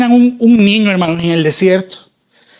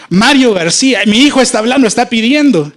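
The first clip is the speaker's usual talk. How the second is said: king calling out; 4 semitones higher than usual. Acted. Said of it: "yo creo que el rey dice".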